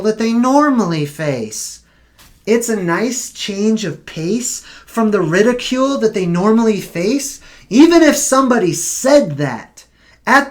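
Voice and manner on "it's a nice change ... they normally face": incredulous repeat. Shown as a demonstration. Vlogger repeats a news quote, mock disbelief. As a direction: repeat the quote back with a questioning rise at the end.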